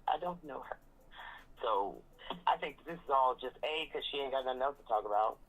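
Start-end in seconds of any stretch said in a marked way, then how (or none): 0.1-0.8 softly quoted diva dismissal; a singer. Retold or imitated. Host quoting Karen disowning Wendy, light diva imitation. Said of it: "In my Mariah Carey voice".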